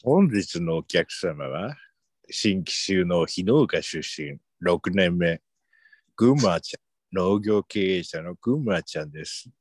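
slow, creepy smooth salesman voice; a creepy salesman purring his pitch; sinister salesman. Acted. Introducing the guest in role. (不気味なセールスマンの声)

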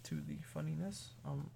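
sleepy, drowsy talking; nodding off. Real, not acted. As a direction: talk like you're falling asleep. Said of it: "I'm falling asleep".

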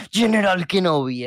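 slow, robotic General Grievous. Retold or imitated. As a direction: stiff robot droid greeting. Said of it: "ese que tiene tan propio suyo robótico". (voz robótica)

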